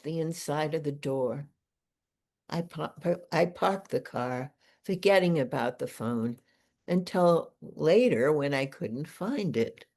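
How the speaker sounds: phrased, lilting poetry recital; poem reading. Acted. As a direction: read the poem aloud with deliberate pauses. Reads own poem aloud.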